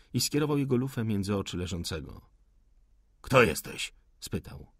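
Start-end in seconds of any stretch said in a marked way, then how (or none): 3.2-3.9 a loud, sudden challenge; sharp demand. Acted. The officer, pistol drawn, demands a name loudly. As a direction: bark the question at him. Officer interrogates the hidden rebel.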